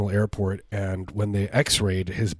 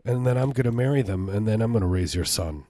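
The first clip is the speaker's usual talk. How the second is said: gleeful threat; 3 semitones higher than usual. Acted. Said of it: "I just got so happy".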